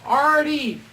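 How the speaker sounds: high, loud, drawn-out seductive call; hammed-up come-hither call; mock sexy voice. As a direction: imitate a woman summoning her lover. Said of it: "and then I hear".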